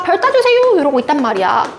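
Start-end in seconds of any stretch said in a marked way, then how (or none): 0.0-0.8 put-on begging child. Teacher voicing the child begging mom for a star, high and whiny. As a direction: wheedle like a small child wanting a star. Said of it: "아이가".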